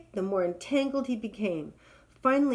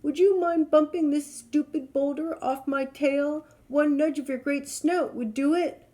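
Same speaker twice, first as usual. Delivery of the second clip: high, louder plea; calling out; 7 semitones higher, 5 dB louder than usual. Acted. Lion begging the rhino for help, louder. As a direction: shout the plea urgently. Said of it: "he called".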